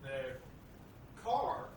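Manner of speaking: one word at a time, halting; staccato. Real, not acted. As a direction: drop each word separately, with pauses. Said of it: "one word at a time".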